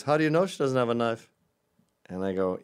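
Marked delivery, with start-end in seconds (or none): 0.0-1.3 louder, skeptical challenge; mock smug liberal guy; liberal dude challenge. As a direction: push back like a know-it-all. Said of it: "he goes".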